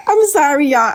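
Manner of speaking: laughing through an apology; giggling nervously while saying sorry to viewers. Real, not acted. Nervous giggling apology to viewers. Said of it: "I laugh when I'm nervous".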